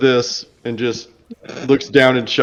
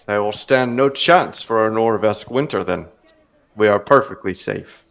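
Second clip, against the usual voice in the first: smiling dwarf; 3 semitones lower than usual. Acted. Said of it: "one of them smiles and says".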